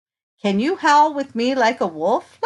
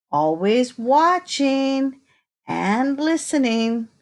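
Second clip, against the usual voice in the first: put-on reading to children; 3 semitones higher than usual. Reading picture book to children.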